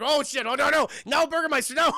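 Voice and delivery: high, loud, hammed-up protest; mock horror. Onlookers stopping the Burgermeister's rant, mock-horrified cries. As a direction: plead loudly in fake shock.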